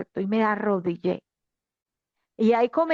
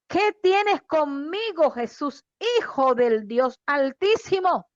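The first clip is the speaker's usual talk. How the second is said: retold cry, pitched up at the start; mild loud cry; 2 semitones higher than usual. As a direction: read the demon's cry with mild force. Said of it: "dijo a gran voz".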